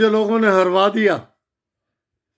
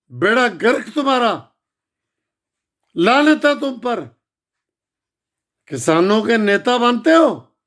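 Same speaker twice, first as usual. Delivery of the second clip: angry scolding. Real, not acted. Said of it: "घर में बैठा आग बबूला हो रहा हूं".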